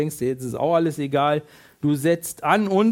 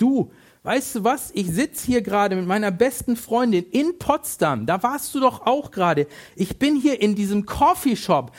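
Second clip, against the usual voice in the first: bubbly, raised-pitch gushing; excited; 3 semitones higher than usual. Retold or imitated. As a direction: gush about the coffee like a thrilled friend. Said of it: "ganz aufgeregt". (aufgeregt schwärmend, etwas höher)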